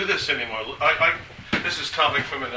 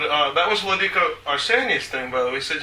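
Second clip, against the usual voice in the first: ordinary talk, nothing marked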